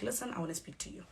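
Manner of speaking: soft, composed request; very calm. Retold or imitated. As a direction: ask gently and calmly to talk. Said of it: "very calmly".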